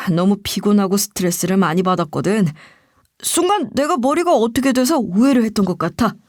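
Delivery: mildly meek, anger let go; submissive apology. Acted. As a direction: back down and make excuses, a touch sheepish. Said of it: "화를 누그러뜨리면서 순종적인 표정과 말투로". (살짝 순종적인 사과 말투)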